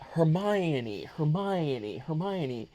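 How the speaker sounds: Hermione as her-MY-uh-nee. Retold or imitated. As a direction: say Hermione with stress on MY, ending in nee. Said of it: "everybody just kept calling this other person".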